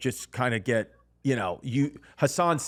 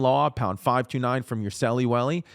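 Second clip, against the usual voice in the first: cutesy sing-song ending on celly welly; playful baby talk. Shown as a demonstration. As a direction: goof around with the ad read. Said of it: "celly welly".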